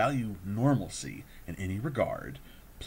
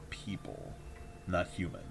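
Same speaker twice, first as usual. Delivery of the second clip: whispered; 7 dB quieter than usual. Acted. Hinting listeners meet non-humans.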